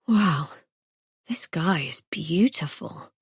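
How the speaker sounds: breathy whispered aside to herself; whispered thought. A narrator's reading. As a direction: whisper it, awestruck. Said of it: "inner thought whispered".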